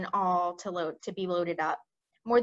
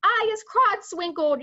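much higher, louder giant yell; 11 semitones higher, 7 dB louder than usual. Acted. Bloodbottler yelling in his chains, much higher and louder. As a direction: yell it at full pitch. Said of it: "yelled the blood bottler".

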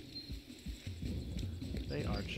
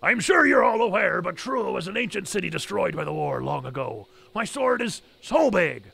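gruff captain voice; 4 dB louder than usual. Acted. Reads captain's lines aloud.

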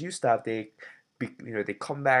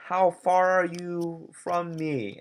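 called out higher and louder, slow; calling out; 7 semitones higher, 4 dB louder, slower than usual. Acted. Bob calling loudly to find his friend. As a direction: shout across to find Joe. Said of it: "he's like".

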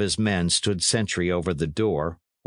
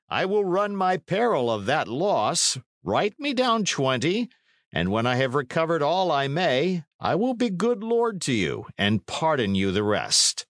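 higher-pitched, lightly amused lordly offer; grinning knight; 7 semitones higher than usual. A narrator's reading. Knight pressing Condall for twenty, lightly grinning. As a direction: grin as you press the bargain.

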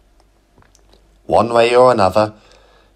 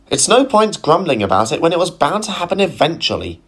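patient; 8 semitones higher, faster than usual. Acted. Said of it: "she continued patiently".

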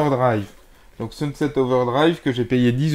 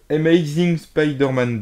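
French speaker's attempted English accent, "eh-may-zing"; slow, careful go at an English accent; rotten English accent; 3 semitones higher, slower than usual. Real, not acted. Vlogger correcting the game title for viewers, clumsy English accent. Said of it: "désolé pour mon accent anglais pourri".

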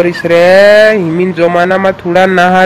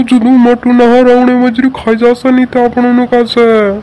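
higher, urgent cry to run; urgent alarmed warning; 4 semitones higher than usual. Acted. Warning friends the flood is coming, alarmed. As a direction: raise the alarm, pushing them to flee.

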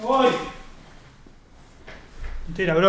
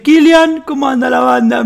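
mock call out; 4 semitones higher, 7 dB louder, slower than usual. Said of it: "uno agarra y me dice".

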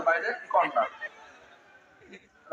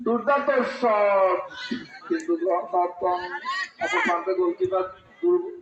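rising, excited play-by-play; frantic football commentary; 2 semitones higher, slower than usual. Real, not acted. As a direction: call the save with a burst of excitement. (উত্তেজিত football ধারাভাষ্য)

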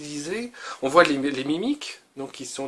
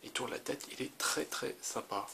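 put-on old martial arts master; 15 dB quieter than usual. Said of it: "ma petite voix de vieux maître des arts martiaux".

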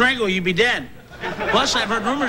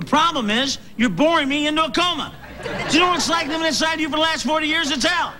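ranting shout; 4 semitones higher than usual. Acted. Alter ego ranting at his host.

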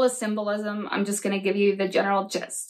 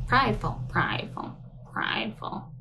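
prideful, prideful, prideful, trailing off into a whisper; mocking repetition. Host mocking Melanie's favorite word, fading out. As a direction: echo her word until it fades. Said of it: "How many times is Melanie gonna say prideful".

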